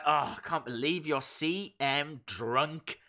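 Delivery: sassy scolding. Pretend. If I was A J Lee scolding him, sassy. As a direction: play a fed-up partner telling him off with a bit of sass. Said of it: "I'm quite a sassy person".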